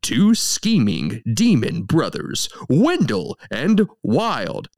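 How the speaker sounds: slow, grand trailer-style read; dramatic synopsis read. Shown as a demonstration. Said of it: "Yes, listen carefully".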